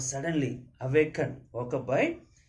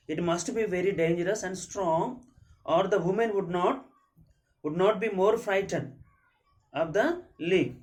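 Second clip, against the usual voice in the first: raised, deliberate classroom reading; story read-aloud; 5 semitones higher than usual. A narrator's reading. Teacher reading a tiger's thought to pupils, raised story read-aloud. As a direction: read it out higher, phrase by phrase.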